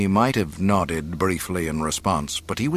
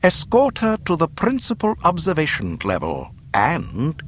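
higher, formal order; commanding governor; 9 semitones higher than usual. Acted. Governor ordering guards to escort the captive, formal command. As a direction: give the order with polite authority.

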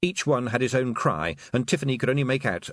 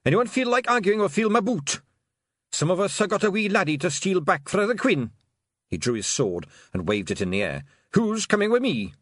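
loud high Scots battle bark; bully them into line and charge; fierce Scots pixie shout; 10 semitones higher, 4 dB louder than usual. Acted. Pixie chief threatening, rallying.

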